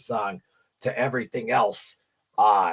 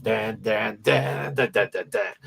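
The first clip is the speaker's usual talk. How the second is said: vocal guitar riff, chopped; riff imitation; slower than usual. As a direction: sing the riff notes out. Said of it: "Warning is".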